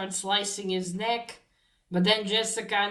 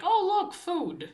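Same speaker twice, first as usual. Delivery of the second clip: sudden jump way up in pitch, gleeful; delighted discovery; 11 semitones higher, slower than usual. Retold or imitated. Dor spotting food at the gallery, gleefully excited. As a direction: squeal it like she just spotted a treat.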